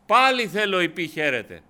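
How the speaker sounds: κήρυγμα με πάθος, πιο ψηλά και δυνατά; κηρύσσει ενθουσιασμένος στο εκκλησίασμα; δυνατό κήρυγμα. Acted. Preacher rises to full force. (κήρυγμα με έξαρση, δυνατή φωνή)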